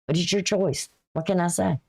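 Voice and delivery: understated, caring caution without pushing; gentle little voice. Retold or imitated. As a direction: mildly voice a caring reminder, then let it go. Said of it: "here is that little voice that says".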